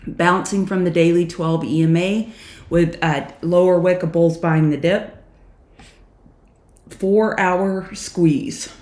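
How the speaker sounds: slight lisp from new aligners; Invisalign lisp. Real, not acted. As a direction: talk around fresh Invisalign trays. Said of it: "so excuse the lisp".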